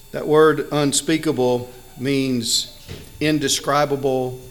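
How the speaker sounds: ordinary delivery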